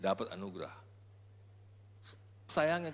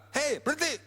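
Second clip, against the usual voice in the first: higher sharp rebuke; disciples' rebuke; 12 semitones higher, 4 dB louder than usual. Retold or imitated. Angry disciples telling the shouting woman to stop, sharp rebuke. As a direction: tell her to stop, annoyed.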